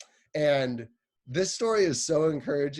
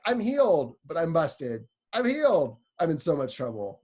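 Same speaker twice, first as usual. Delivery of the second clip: high, louder, giddy then worried; healed but busted; 4 semitones higher, 4 dB louder than usual. Retold or imitated. Woman voiced by youth leader, giddy joy turning to mock panic. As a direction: swing between joy and panic. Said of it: "She was like".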